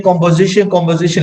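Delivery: composition said for conversation; composition, the old Burmese-English slip; old wrong way. Shown as a demonstration. Learner showing a past mispronunciation, composition for conversation. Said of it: "I was pronouncing wrongly".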